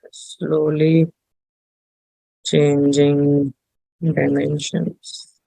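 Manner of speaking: each word set apart with pauses; slow, spaced out. Shown as a demonstration. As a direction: spell the term out slowly. Term said then spelled out.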